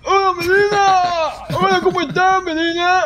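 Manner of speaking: high, whiny cartoon greeting; put-on high-pitched character voice; silly high voice. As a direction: squeak out a goofy hello. Clowning with a greeting voice.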